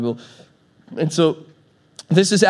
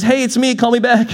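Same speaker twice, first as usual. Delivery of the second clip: vague voicemail; 6 semitones higher than usual. Retold or imitated. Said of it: "all they say is".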